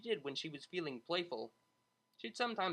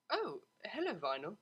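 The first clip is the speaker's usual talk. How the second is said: startled; 6 semitones higher than usual. Acted. Snapping out of daze.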